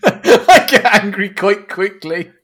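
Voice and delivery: slow laughing repeat; mock his words through laughter; teasing the partner by echoing him; laughing mimicry.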